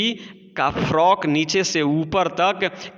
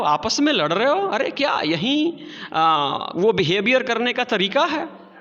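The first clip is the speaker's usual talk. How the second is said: put-on higher, chiding old woman's plea; old grandmother; 5 semitones higher than usual. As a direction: scold the crowd gently on a festival day. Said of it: "पूछती हैं".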